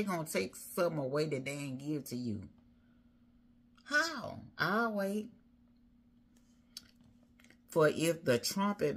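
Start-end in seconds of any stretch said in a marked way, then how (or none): 3.8-5.3 high, pointed question; rhetorical challenge. Real, not acted. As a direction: toss it out high and wait for an answer. Challenges congregation, waits for answer.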